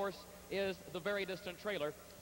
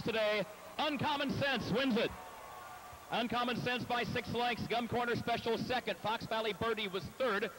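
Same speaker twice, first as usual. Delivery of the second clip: louder, rising stretch-run excitement; excited finish call; 2 semitones higher, 4 dB louder than usual. Real, not acted. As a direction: call the home stretch with building energy. Race caller calling the finish.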